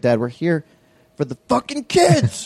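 hammed-up frustrated son; mock outburst at dad; exasperated yell. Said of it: "I was like".

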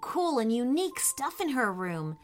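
exclaiming. Acted. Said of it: "Lucy exclaimed".

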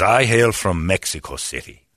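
lightly imitated courtly attendant; a touch of suave formality; beautiful speaking voice. Attendant telling where he hails from, beautifully spoken. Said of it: "He's got a beautiful speaking voice".

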